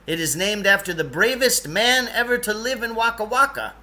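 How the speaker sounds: offended. Acted. Lance indignant at the boy mocking Lenny's name. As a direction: bristle at the insult to his city.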